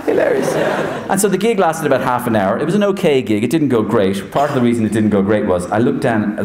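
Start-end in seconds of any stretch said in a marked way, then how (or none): 0.0-0.5 very high, wheezy put-on amusement; imitated manager laughing along; squeaky laughing approval; Jose Mourinho. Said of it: "Jose's going".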